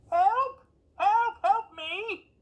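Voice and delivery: high desperate shouting cry; yell for help. Acted. Locked-in woman yells for help through the door, shouting. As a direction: scream it out from behind the door. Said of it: "heard someone yell".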